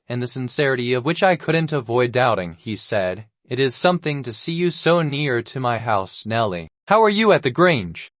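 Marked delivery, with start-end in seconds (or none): 3.5-8.1 almost hearty. Acted. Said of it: "in the almost hearty tone".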